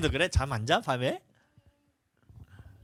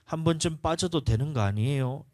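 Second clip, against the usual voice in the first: ordinary talk, nothing marked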